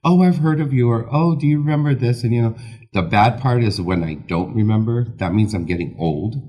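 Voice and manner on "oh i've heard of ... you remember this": higher, louder excited fans; eager fans. Retold or imitated. Hairdresser imitating eager fans, higher excited gushing. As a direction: gush like a fan meeting him. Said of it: "sometimes it's overwhelming".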